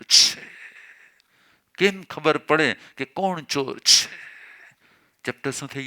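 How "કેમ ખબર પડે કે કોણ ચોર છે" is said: drawn out, each word weighed: કેમ ખબર પડે કે કોણ ચોર છે; slow, deliberate question. Shown as a demonstration. Preacher showing the congregation a tactful answer to police, slow and deliberate. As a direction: ask it slowly, like a careful innocent question. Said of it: "ચોર ગયો, અહીંયાથી ઘણા જતા હોય".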